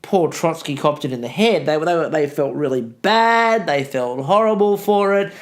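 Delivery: dry mock sympathy; mock-sincere regret that nobody could believe; sarcastic. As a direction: fake mourning, with the sarcasm obvious. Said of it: "understand the level of sarcasm in my voice".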